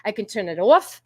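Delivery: rounded New York vowels on "on" and "off"; lightly put-on New York accent. Shown as a demonstration. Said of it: "talk like a New Yorker".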